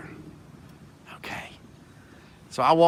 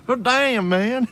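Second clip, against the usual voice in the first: high, louder amazed exclamation; 12 semitones higher, 6 dB louder, slower than usual. Retold or imitated. Fan reliving his brush with a famous drummer, amazed. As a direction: blurt it out, thrilled and amazed. Amazed reaction to meeting a star.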